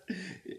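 short, soft laugh; brief stifled chuckle; involuntary chuckle. Acted. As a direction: laugh slips out at own joke. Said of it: "Er musste lachen".

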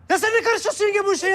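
high, loud laughing protest. Acted. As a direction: laugh while scolding. Yengeye gülerek çıkışıyor. (gülerek çıkışma)

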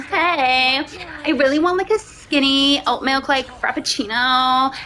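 put-on LA coffee-order drawl; American valley girl. Customer ordering in LA coffee shop, valley girl accent. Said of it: "I'll be like".

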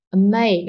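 "amazing" with a strong "ma"; stress on MAY. Shown as a demonstration. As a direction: punch the second syllable of "amazing", ending light. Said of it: "chỉ có may là cô cao giọng". (nhấn âm "ma" trong "amazing")

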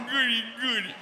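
put-on high childlike voice. Voicing girlfriend.

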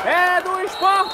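slow, stretched celebration; drawn-out goal call. Real, not acted. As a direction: stretch every word of it. Anúncio do gol. (anúncio do gol arrastado)

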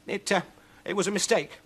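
high, hesitant excuse; flustered witch. Acted. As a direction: stammer out an excuse, pitched high. Witch makes excuse to demons.

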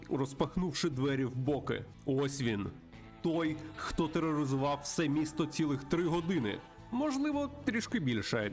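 animated western narrator, pitch a little lifted; dramatic story narration. Acted. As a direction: tell the villain's entrance with relish. Reads game narration dramatically.

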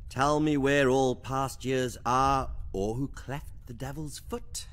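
reading a poem aloud, unhurried; poem recital. Acted. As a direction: recite it like verse, dwelling on lines. Howl reads out Donne's poem.

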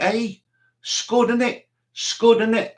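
high, cheeky Scouse soldier voice; Scouse accent. Retold or imitated. Scouse soldier naming the incoming missile, in a Scouse accent. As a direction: imitate a Scouser squinting at the sky. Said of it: "it was a Scouser who was in the British Army".

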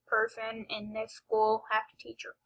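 hushed unvoiced aside; whispering. Real, not acted. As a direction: whisper it to the camera.

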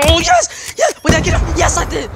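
high triumphant yells of yes; victory shout. Real, not acted. Celebrating a kill.

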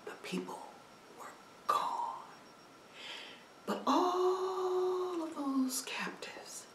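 awed hushed telling; whisper. A narrator's reading. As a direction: let it fall to a whisper. Hushed aftermath of escape.

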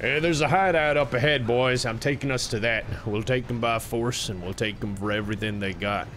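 lightly voiced cowboy gang leader. Cowboy leading the boys to a hideout, cowboy voice. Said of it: "talking like cowboys".

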